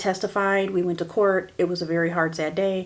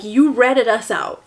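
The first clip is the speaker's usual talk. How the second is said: mock accusation; 5 dB louder, slower than usual. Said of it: "that kind of look".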